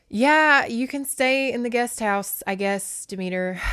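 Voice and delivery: put-upon god offering a room; reluctant Poseidon. Pretend. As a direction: give in with weary reluctance. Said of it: "he's probably like".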